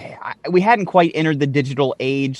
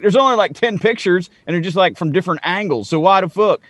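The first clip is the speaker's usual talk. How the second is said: high, loud mock outrage at the few photos; mock incredulous; 5 semitones higher, 3 dB louder than usual. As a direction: play the scoffing conspiracy theorist, pitched way up. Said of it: "you're like".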